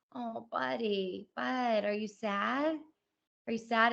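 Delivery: put-on slow, tender coaxing to a toddler; gentle mother soothing. Mother soothing her crying toddler.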